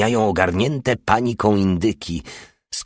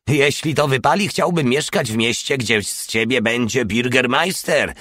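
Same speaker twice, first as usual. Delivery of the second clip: higher, grinning delight; 5 semitones higher than usual. Acted. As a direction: say it through a wide grin. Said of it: "wyszczerzył zęby Porta". (wyżej, z szerokim uśmiechem)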